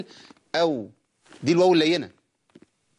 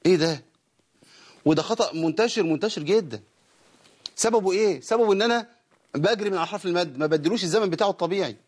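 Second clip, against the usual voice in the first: ordinary talk, nothing marked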